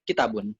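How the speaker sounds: kitabun said short and even, without Arabic stress; children's misreading. Retold or imitated. Imitating children reading Arabic, kitabun short and unstressed. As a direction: read kitabun quickly with no long vowel. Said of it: "dia bacanya".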